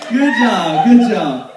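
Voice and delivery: loud laughing good job; laughing, loud praise to the singers. Real, not acted. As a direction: praise them through laughter. Praising congregation's singing, laughing.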